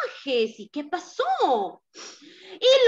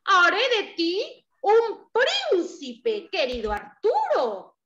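lightly voiced cat; 3 semitones higher, slower than usual. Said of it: "el gatito le dijo".

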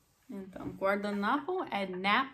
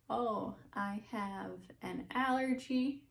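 customer telling allergy; 3 semitones higher, slower than usual. Pretend. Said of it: "você tem que falar".

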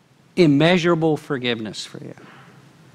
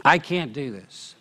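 quiet defeated admission; 2 semitones lower, 4 dB quieter than usual. Retold or imitated. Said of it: "What they're saying is".

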